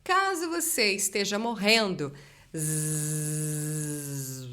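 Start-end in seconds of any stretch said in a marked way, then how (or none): 2.6-4.5 buzzing z that fades out at the end; dying buzz. Shown as a demonstration. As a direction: let the zzz die away. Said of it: "esteja morrendo no final do Z".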